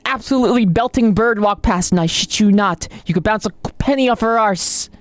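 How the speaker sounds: exaggerated British bloke impression; mock British accent. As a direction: tell it like a bragging pub lad.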